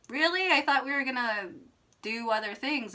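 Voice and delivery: mock taken-aback question; retold disbelief. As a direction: pitch jumps high on really, then settles. Retold disbelief at date ending.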